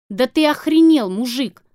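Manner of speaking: furious shout at a friend; angry outburst. Acted. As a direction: blast him with disbelief. Val explodes at Kara.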